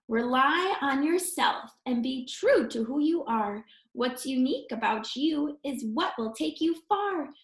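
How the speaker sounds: put-on sing-song rhyme read to children; reading a story poem. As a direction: tell the little story in verse. Reads rhyming verse to children.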